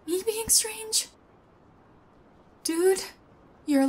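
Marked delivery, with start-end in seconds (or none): 0.1-1.1 slow and high, in disbelief; drawn out, can't believe he said that; incredulous. Real, not acted. Intruder incredulous at the homeowner calling him strange.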